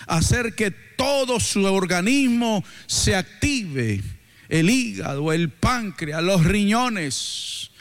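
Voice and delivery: emphatic exhortation with drawn-out phrase endings; preaching. Real, not acted. Preacher telling the congregation to get moving, emphatic preaching. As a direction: urge the congregation on, stretching the key words.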